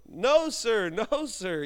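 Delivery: normal talking voice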